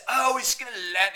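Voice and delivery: high, loud mock Brit; hammed-up British confidence; British impression. Mocking the British promising a landing, high British impression. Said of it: "The stupid British".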